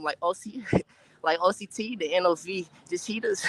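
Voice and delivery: rapping while out of breath; short gasps between rap lines. Real, not acted. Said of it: "I'm out of breath".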